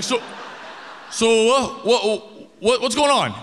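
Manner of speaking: high frantic questioning. Retold or imitated. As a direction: press him, exasperated. Frantic questioning through door.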